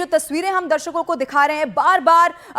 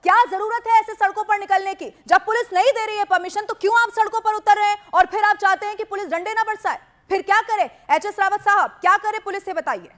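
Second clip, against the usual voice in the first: raised, hammering questions; heated; 3 semitones higher than usual. Real, not acted. Anchor demanding cleric tell his community to stop, heated. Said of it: "जो गुस्सा मैं कर रही हूँ ना".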